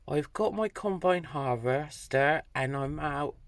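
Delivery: a hint of a broad Dorset farmer accent; lightly put-on rural Dorset burr; Dorset farmer phrase. Manager asking her to say his farm phrase in Dorset accent. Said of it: "he's going".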